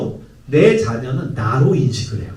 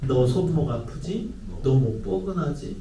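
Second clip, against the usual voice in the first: soft, slow caring question; kindly caring; 6 dB quieter than usual. Retold or imitated. Adult to teen, soft kindly concern. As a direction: coax gently like a worried adult. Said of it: "친절하게 배려하듯이".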